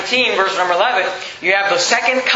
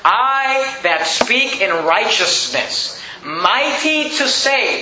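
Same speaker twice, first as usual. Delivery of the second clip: slow scripture reading; much slower than usual. Acted. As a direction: read it slowly and solemnly, word by word. Preacher reads scripture aloud.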